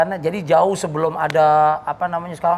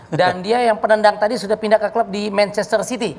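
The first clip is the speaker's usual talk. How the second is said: football commentator. Pretend. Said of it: "kalian harus komentarin ala-ala komentator bola".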